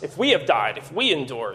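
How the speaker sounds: "we" lifted above the falling rest of each clause; stress on WE. Shown as a demonstration. Preacher showing the verses point at us, stress on "we". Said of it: "putting a large emphasis on our behavior".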